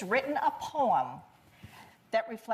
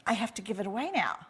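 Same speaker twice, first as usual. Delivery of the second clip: put-on toddler voice; 6 semitones higher than usual. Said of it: "she was saying to herself".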